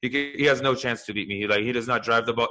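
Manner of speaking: lightly imitated Spanish accent, straight-faced; deadpan golfer with a hint of Spanish accent. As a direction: quote him in a mild Spanish accent, no joking around. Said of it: "this is my Spanish accent".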